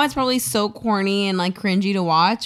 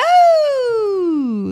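high delighted whoa; surprised whoa; 14 semitones higher, 4 dB louder than usual. Real, not acted. Reaction to bubbles.

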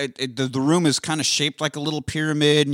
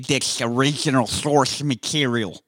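nerd voice. Retold or imitated. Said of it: "I'm trying to play with the nerd kid".

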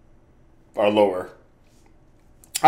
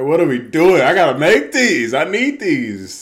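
higher-pitched mock complaint to heckling family; retold exasperated protest; 6 semitones higher, 6 dB louder than usual. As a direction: plead your case as a wronged shooter. Retelling his protest to heckling family.

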